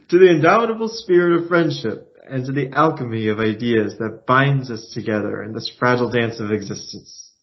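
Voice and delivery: lightly lofty toast to friendship; a hint of a pompous poet; grand toast. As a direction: raise the glass with mock grandeur. Raises toast as Daniel.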